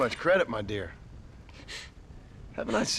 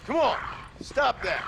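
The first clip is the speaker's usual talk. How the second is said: urgent plea; 12 semitones higher than usual. Acted. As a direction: beg him urgently to stop. Pleading with zombie Abraham.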